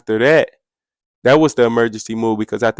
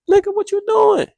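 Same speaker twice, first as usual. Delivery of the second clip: mock shout. Retold confrontation in his cell.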